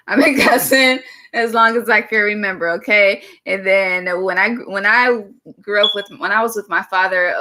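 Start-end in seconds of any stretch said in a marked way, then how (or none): 0.1-3.2 amused, laughing admission. Real, not acted. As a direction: break into a laugh mid-line. Repeating her cussing confession, laughing.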